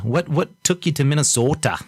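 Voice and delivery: put-on a playful, half-hearted Minnesota accent. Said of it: "I love the accent".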